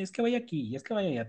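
quick, high mock of an official; mocking bureaucrat. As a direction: rattle it off like a bored clerk. Imita a burócratas dando vueltas. (imitando a un burócrata)

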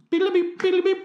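very high, trilled electronic beeping; squeaky falsetto phone-tone imitation; imitated phone ringing. Host pretends to phone an astronaut, high mimicked beeps.

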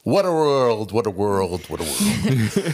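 witch melting quote. Retold or imitated. Quoting the witch.

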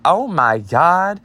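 drawn-out, high shocked "oh my God"; shocked gasp. Retold or imitated. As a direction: gasp it out in disbelief. Crowd reacting to slur.

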